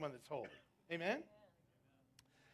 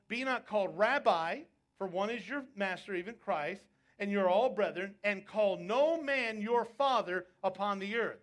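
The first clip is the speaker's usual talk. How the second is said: forceful scripture reading; 4 dB louder than usual. Acted. Preaches Jesus' words forcefully.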